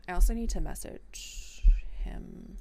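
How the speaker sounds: unvoiced whispered note to self; whispered aside. Real, not acted. Streamer whispering a reminder to herself off mic. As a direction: whisper it to yourself.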